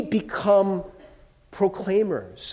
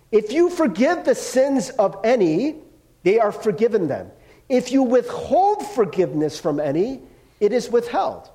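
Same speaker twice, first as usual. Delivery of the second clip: deliberate, higher scripture reading with pauses; emphatic rereading; 4 semitones higher than usual. A narrator's reading. Preacher rereads the verse so listeners pay attention, deliberate and emphatic. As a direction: read each clause out pointedly. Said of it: "I wanna read this again".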